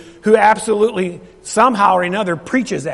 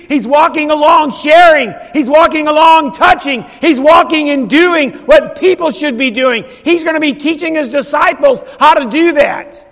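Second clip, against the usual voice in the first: louder, higher, driving repetition; full-force preaching; 4 semitones higher, 3 dB louder than usual. Real, not acted. Preacher urging church to share in the streets, full-force preaching. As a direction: preach it in rising, insistent phrases.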